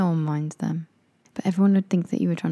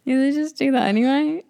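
much higher, louder party yell; shouting to a friend at a loud party; shouting over music; 8 semitones higher, 4 dB louder than usual. Pretend. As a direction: yell as if music drowns you.

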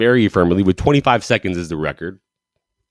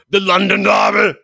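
loud high hype call; hyped announcer call; 10 semitones higher, 3 dB louder than usual. Acted. Host hyping Arsenal versus Tottenham for fans, announcer shout. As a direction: sell the derby like an announcer.

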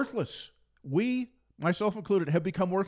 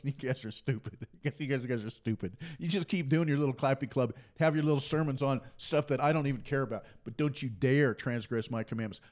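mock Antichrist; 5 semitones lower than usual. The Antichrist mocking the church, low contemptuous sneer.

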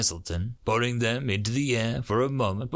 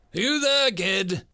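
sudden, high, louder question; sudden call; 7 semitones higher, 4 dB louder, slower than usual. A narrator's reading. Major jerking Kalvek out of a half doze, sudden call. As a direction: call out abruptly to rouse someone. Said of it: "the major asked suddenly".

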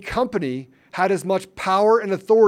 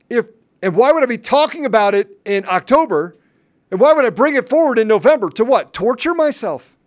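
louder, rising exasperated questions; exasperated defiance, louder each time; indignant; 5 semitones higher, 5 dB louder than usual. Real, not acted. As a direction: fire off the questions in disbelief.

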